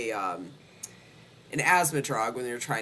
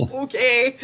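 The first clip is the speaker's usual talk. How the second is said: laughing okay; 10 semitones higher, 8 dB louder than usual. Retold or imitated. Retelling her agreeing, laughing.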